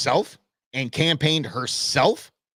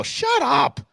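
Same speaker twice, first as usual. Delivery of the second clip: angry shout; 10 semitones higher than usual. Real, not acted. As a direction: bark it off in disgust. Angry retort to mock pity.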